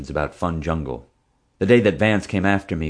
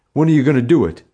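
loud, high, keen demand; eager bully; 8 semitones higher, 8 dB louder, faster than usual. A narrator's reading. Bully pressing the boy to do the prank, eager. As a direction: push eagerly, voice jumping up.

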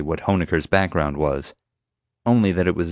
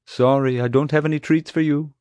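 higher-pitched talk to an animal; tender apology; 9 semitones higher than usual. A narrator's reading. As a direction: coo an apology to a big pet. Talks tenderly to the rhino.

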